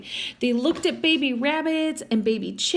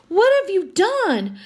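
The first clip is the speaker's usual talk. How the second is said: higher, louder shocked question; alarmed cry; 8 semitones higher, 5 dB louder than usual. A narrator's reading. Nina crying out at Sam, higher and louder. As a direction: demand it in alarm. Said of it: "cried Nina".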